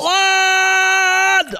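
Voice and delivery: high, loud patriotic yell; cheering for Scotland with a loud, high yell; shouted cheer. Real, not acted. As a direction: roar the name like a fan.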